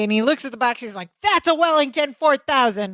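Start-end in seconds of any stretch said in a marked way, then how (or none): 1.2-2.9 a touch of anger, pitched up; lightly acted irritation with a higher voice; mild mock anger. Retelling Larry looking at the box, mildly angry. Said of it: "He's still angry".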